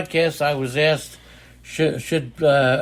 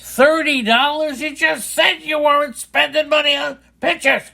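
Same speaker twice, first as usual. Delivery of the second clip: incredulous shout; 11 semitones higher than usual. Real, not acted. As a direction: shout it in total disbelief. Shocked at the $30 bid.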